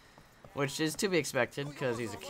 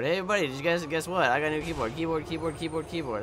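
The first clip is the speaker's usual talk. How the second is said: quick, excited blurting of the news; playful rapid-fire bragging; mock announcement; 2 semitones higher, faster than usual. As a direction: rattle off the same word over and over. Mock announcement, repeating keyboard.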